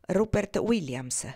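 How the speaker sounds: slow, clipped-off answer, each word set down; curt reply. Acted. Ortensia answers Norman curtly, slow and dry. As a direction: give the name curtly, slowly. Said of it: "Lei rispose seccamente".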